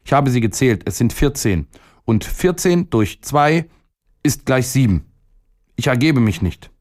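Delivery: high-pitched, insistent reckoning; stubborn boy. A narrator's reading. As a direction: stand your ground in a high boyish voice. Boy insists on seven plums.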